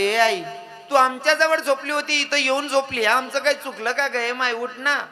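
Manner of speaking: put-on a little girl begging her mother; pleading girl. Daughter pleads with dead mother.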